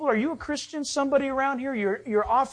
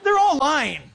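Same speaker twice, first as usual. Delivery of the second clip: laughing; 3 semitones higher, faster than usual. Real, not acted. Laughing at lying news.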